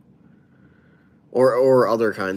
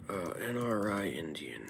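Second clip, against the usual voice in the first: whisper; 2 semitones lower, 12 dB quieter than usual. Real, not acted. Reads viewer question aloud, whispering.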